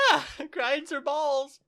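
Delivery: high, loud, drawn-out laughing words. Real, not acted. Co-host insisting on the botched idiom, laughing. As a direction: crack up mid-phrase.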